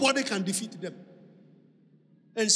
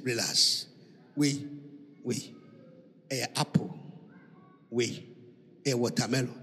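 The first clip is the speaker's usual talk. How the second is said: mother's voice; 13 semitones lower, 6 dB quieter than usual. Retold or imitated. Mother voiced in retold story.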